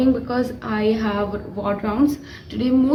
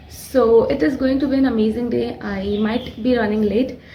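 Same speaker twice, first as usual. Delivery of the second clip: talking through sore throat. Real, not acted. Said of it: "sorry for my voice, my throat is not that good".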